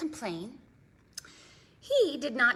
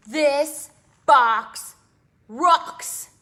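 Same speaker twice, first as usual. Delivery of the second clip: loud, higher, thrilled shout; excited; 5 semitones higher, 13 dB louder, much slower than usual. Acted. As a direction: cheer it out like a big discovery. Excited reveal of the box.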